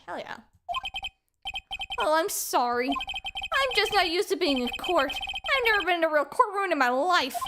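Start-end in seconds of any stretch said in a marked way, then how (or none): 2.0-2.9 apologetic clown character voice; lightly voiced clown; put-on clown voice. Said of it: "what I'm doing with this voice". 2.9-7.4 lightly voiced hapless clown; a hint of clownish character; put-on clown voice. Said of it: "what I'm doing with this voice".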